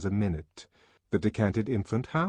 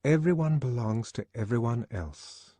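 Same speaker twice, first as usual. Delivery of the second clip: repeated slowly; 4 semitones higher than usual. Acted. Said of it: "Lenina repeated slowly".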